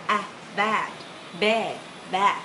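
"bad" with a wide open a vowel. Shown as a demonstration. Teacher contrasting vowels, open a in "bad". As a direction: drop the jaw on "bad". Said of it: "Một cái là A".

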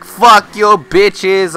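loud, brash shout to a room; booming retold boast; announcing to class. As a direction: reenact a cocky public announcement. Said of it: "I announced all class".

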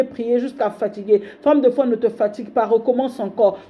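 fervent preacher urging her not to give up; preaching exhortation. Acted. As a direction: drive each line home to the congregation. Prêche d'encouragement. (prédication fervente, martelée)

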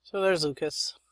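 hushed aside; whisper. Real, not acted. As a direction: whisper it as you spot him. Spotting character, hushed aside.

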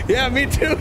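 high squealing laughter; laughing hard. Real, not acted. Cop cracks up with the prisoner over the Snickers joke, laughing. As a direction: break up laughing.

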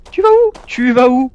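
high, loud teasing yell; mocking shout. Yelling after the enemy running away, high mocking shout. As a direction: call after her to mock the escape.

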